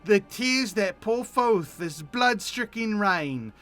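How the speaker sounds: slow, grandly gloomy recital, loud at the start; hammed-up dark verse; melodramatic poem. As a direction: recite like a tortured poet.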